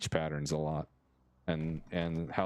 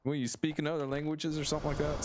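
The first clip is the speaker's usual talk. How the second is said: higher-pitched voicing of a puzzled girlfriend; mildly incredulous; 7 semitones higher than usual. Girlfriend quizzes him after hearing him order, mildly incredulous. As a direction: imitate a baffled partner, pitched up.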